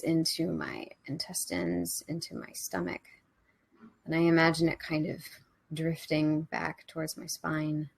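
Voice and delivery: hushed, unhurried trance-like report; meditative visualisation. Real, not acted. Narrates own inner visualisation in meditation.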